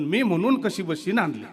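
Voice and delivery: loud hammed-up wife griping about husband; self-pitying village wife, mocked; mock complaining wife. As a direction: parody a wife's martyr complaint. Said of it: "जसं आपल्याकडच्या बाया म्हणतात ना".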